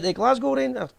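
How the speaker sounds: put-on German accent gone Welsh; botched German accent. Host quoting the German commentator, botched German accent sounding Welsh. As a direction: attempt a German, land on Welsh. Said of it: "I don't know why I done a Welsh accent".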